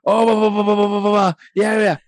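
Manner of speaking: imitating an outraged pirate; Jack Sparrow voice. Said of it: "He's like".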